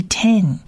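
eten as "ee-ten", both syllables distinct; model pronunciation. Shown as a demonstration. Teacher putting the first word's sounds together, careful eten. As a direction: say eten twice for learners, pause between. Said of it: "念起来就是eten的音".

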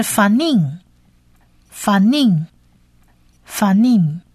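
"Fanin" slowly, long ee, closing on a hum; Hebrew word pronunciation. Shown as a demonstration. Teacher introduces the next word to learners, slow pronunciation model. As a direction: repeat "Fanin" with a drawn-out second syllable. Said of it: "下一个字是".

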